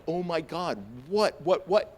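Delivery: high, startled babble; acted panic. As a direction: react as if screamed at. Acts out panic at screaming cop.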